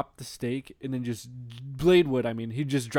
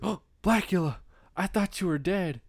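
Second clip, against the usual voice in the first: higher-pitched mock surprise; Blade; 6 semitones higher than usual. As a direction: act out a startled reunion, voice lifted. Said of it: "and Blade's like".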